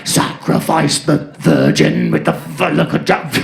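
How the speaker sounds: low, loud, slow metal growl; growled metal lyric. Retold or imitated. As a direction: growl it like a death metal singer. Imitates metal music.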